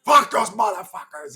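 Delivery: cursing Greek dad. Retold or imitated. Dad answering son in the truck, angry accented curse. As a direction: imitate dad's dismissive accented curse. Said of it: "And he's like".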